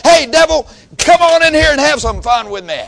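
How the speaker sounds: loud, high mock invitation; calling out. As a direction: holler to the devil to come in. Acted calling out to the devil.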